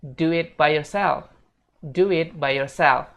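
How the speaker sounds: "do it by yourself" slow, with du-wit joined; slow model "do it by yourself"; linked model phrase. Shown as a demonstration. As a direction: stretch "do it by yourself" for learners. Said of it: "fullnya bakal kayak gini".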